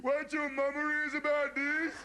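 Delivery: put-on high, slow tattling child's whine; whiny little brother. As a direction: drag out the threat like a nagging kid. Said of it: "all I heard all day was".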